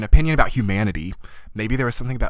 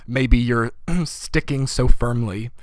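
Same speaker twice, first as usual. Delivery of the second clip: hoarse, clearing throat mid-phrase; slow, rough-throated, voice giving out; losing voice; 3 semitones higher, slower than usual. Real, not acted. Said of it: "I'm losing my voice".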